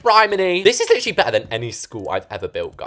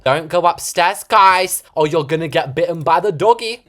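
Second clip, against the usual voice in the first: Dumbledore impression; 5 semitones higher, 6 dB louder than usual. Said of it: "he says it exactly like that".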